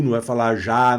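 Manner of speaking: já said with an open a; já, ah vowel; wrong vowel. Shown as a demonstration. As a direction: show the wrong já. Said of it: "É je".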